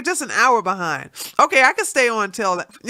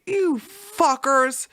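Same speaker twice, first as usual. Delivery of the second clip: indignant; 8 semitones higher, slower than usual. Retold or imitated. Retelling outrage at stream takedown.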